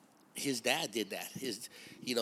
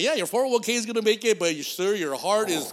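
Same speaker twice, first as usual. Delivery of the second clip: doctor voice; 6 semitones higher, 7 dB louder than usual. Retold or imitated. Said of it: "You're like".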